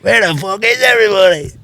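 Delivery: high, slow, drawn-out bad Irish mimicry; bad McGregor impression. Mocking McGregor's acting to a friend, hammed-up high voice. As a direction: ham up a bad imitation of McGregor. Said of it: "me doing a bad impression of McGregor".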